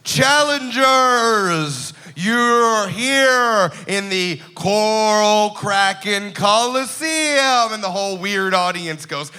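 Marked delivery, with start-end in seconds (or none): 0.0-7.7 slow, grand sea-monster announcer; booming kraken voice. Acted. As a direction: draw it out like an arena host.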